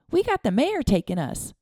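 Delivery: put-on proud little boy; boy in awe. A narrator's reading. Boy telling his father, in awe. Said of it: "Charlie looked up at Jason in awe".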